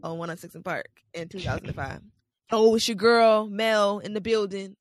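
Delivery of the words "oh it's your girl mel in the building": loud, hyped radio DJ intro. Pretend. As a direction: announce yourself like a DJ. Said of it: "like I'm auditioning to be a V J".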